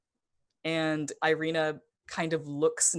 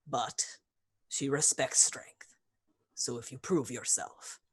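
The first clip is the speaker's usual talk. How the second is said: whisper; 3 semitones lower than usual. Acted. NPC leaning in to confide.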